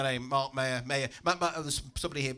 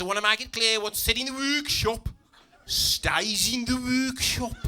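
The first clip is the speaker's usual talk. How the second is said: workshop instructor; 6 semitones higher than usual. Acted. Instructor setting workshop confidentiality, high and ponderous. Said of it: "the fella says".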